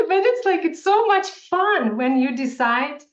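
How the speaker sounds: high, loud laugh spilling into words; giddy laughing talk. Real, not acted. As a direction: laugh and push on, delighted. Laughing with excited guest.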